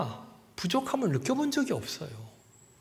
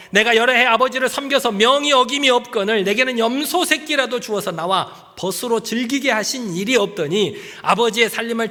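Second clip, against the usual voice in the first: raised, aggrieved protest; older son's complaint; 3 semitones higher, 3 dB louder than usual. Acted. Older son to father, aggrieved raised protest. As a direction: complain loudly like a wronged son.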